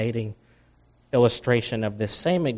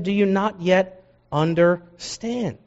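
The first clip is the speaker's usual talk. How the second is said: sanctified frustration; 5 semitones higher, slower than usual. Acted. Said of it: "You can hear the sanctified frustration".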